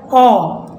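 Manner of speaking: ओ said as an open "aw"; short O sound. Shown as a demonstration. Teacher quizzing on the first rule, ओ as open "aw". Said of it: "short sound".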